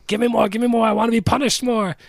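hammed-up high Mozart begging; mock pleading Mozart. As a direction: beg like a manic young genius. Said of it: "then he's like".

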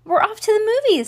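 high, loud, quick call; calling back. A narrator's reading. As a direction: shout the answer back brightly and fast. Calling back to a shouting neighbour.

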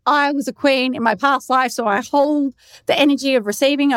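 lightly mocking mimicry; teasing imitation of a lofty claim; mocking echo. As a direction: quote it back as if it were absurd. Men mockingly repeat her answer.

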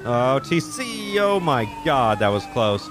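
slow, stunned near-miss reaction; startled gasp. Real, not acted. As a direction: caught off guard by a close call. Near crash while chasing.

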